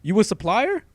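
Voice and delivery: high, loud shady dude voice; high shady guy. Retold or imitated. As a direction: play a twitchy dealer type. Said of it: "he's like".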